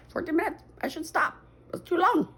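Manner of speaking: laughing it off at her own rambling. Real, not acted. Vlogger noticing fourteen minutes passed, laughing. Realizes video too long.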